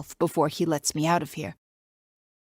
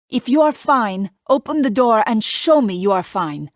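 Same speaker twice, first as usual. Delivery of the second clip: put-on light Italian accent; 5 semitones higher, 7 dB louder than usual. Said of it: "His Italian accent isn't even that thick".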